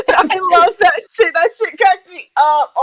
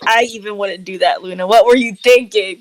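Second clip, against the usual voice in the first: Leon's voice; 6 semitones lower, faster than usual. Acted. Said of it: "Leon looks at you, Luna, and is like".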